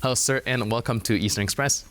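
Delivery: lively scripted news-show intro; presenter's guest introduction. Acted. Host introduces a former Romanian diplomat to viewers, presenter's guest introduction.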